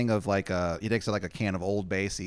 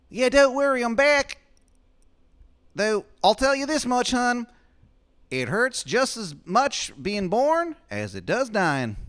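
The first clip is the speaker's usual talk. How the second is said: very high, loud falsetto; Shithead Steve's voice; 7 dB louder than usual. Acted. Steve reassuring Adam at the door, loud high falsetto. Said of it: "He goes".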